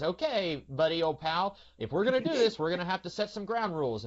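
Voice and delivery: Eddie laying down the ground rules, playing it for laughs; comic Eddie. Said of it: "it's played more for comedy".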